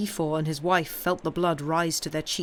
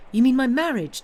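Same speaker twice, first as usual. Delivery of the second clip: high, loud rush of realisation; excited exclamation; 7 semitones higher, 9 dB louder than usual. A narrator's reading. Granddaughter guessing what grandfather objects to, exclaiming. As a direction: blurt out the guess loudly. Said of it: "Valentine exclaimed suddenly".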